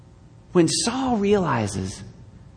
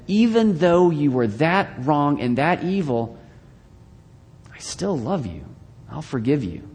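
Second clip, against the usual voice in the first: tender forgiveness; 3 semitones lower than usual. Acted. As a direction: speak it gently, like grace itself. Messiah speaking forgiveness tenderly.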